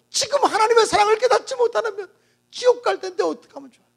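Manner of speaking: pleading, rising cry to God; anguished prayer. Acted. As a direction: beg God in desperation. Pastor's desperate prayer.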